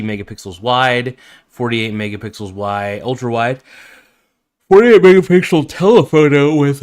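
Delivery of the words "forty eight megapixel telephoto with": talking through a yawn; stretched, yawning words. Real, not acted. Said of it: "I'm yawning".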